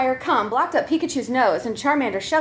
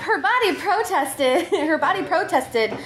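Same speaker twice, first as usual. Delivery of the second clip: laughing; 4 semitones higher, slower than usual. Real, not acted. Reader laughing while reading.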